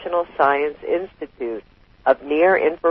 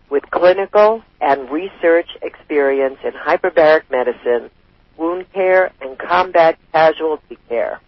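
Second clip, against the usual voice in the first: out of breath. Real, not acted. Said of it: "I'm getting out of breath here".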